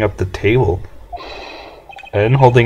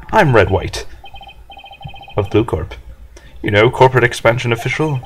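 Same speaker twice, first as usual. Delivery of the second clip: lightly voiced pompous executive; Red White. Executive introduces himself to lowly lawyer, arrogant. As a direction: talk down with grand self-importance. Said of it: "this guy's arrogance meter is off the scale".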